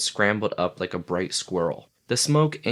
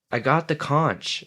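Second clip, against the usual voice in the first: hurt voice; 7 semitones higher than usual. Acted. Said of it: "said Piggy in a hurt voice".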